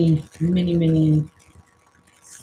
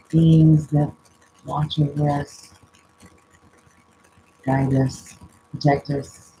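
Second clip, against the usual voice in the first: spirit invocation. Acted. Reader calling on spirit guides and angels, solemn invocation. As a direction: call on the spirits in measured, separate phrases.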